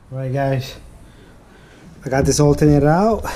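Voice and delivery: panting after heavy lifting; gasping between phrases; out of breath. Real, not acted. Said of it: "and I'm out of breath".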